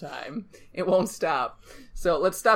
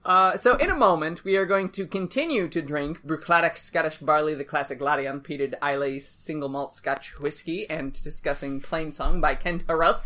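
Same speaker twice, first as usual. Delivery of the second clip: all in one breath. Real, not acted. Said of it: "I did that all in one breath".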